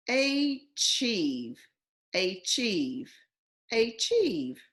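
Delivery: "achieve" tried with a long A, AY-chieve; testing the wrong vowel; long A reading. Shown as a demonstration. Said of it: "That A".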